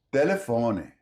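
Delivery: telefone ending in a short i; final e as i. Shown as a demonstration. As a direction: end telefone on an ee sound. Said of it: "unstressed E becomes something like I".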